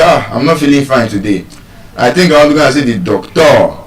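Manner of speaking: telling a friend, ending on a heavy "docTOR"; casual complaint with "doctor" said doc-TOR; mis-stress doctor, punching the final tor; doctor stressed on second syllable. Pretend. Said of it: "imagine you're telling your friend, you say".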